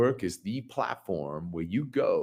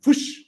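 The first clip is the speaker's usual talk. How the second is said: whoosh; 9 dB louder than usual. Acted. Imitating data vanishing suddenly.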